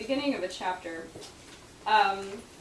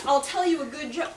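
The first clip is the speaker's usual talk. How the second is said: Southern accent quote; 4 semitones higher, 5 dB louder than usual. Shown as a demonstration. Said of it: "account began".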